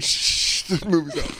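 hushed shush, barely voiced; whispering. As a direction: shush someone in a cinema.

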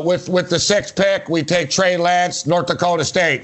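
slow, deliberate pick announcement; mock draft announcer. Co-host pretends to announce the Eagles' pick, mock announcer.

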